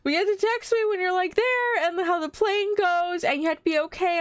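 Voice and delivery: imitating her mom before the trip, high and anxious; imitating worried mom. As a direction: play the fretting mother giving orders. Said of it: "She's like".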